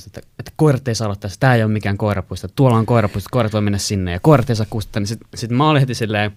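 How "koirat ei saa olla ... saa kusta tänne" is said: loud, fast angry scolding; retold yelling. Angry older neighbour yelling at dog owners in the yard, loud. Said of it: "alkaa niinku oikein huutamaan".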